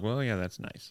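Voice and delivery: unimpressed. Retold or imitated. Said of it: "And Sherlock".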